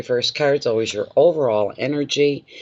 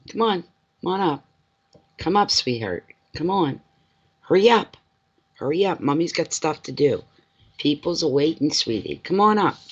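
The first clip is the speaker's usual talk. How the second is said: coaxing pet voice; 5 semitones higher than usual. Real, not acted. Coaxing dog onto couch.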